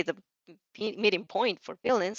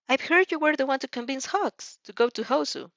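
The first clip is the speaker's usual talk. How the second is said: a lightly higher, polite principal's voice; Nezu voice; 5 semitones higher than usual. Acted. Nezu questioning the student over tea, lightly higher voice.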